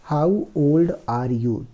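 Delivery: slow, careful reading of the English passage; slow reading aloud. Shown as a demonstration. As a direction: read each word slowly for the class. Teacher reads story slowly. (धीमी आवाज़ में अंग्रेज़ी पढ़ना)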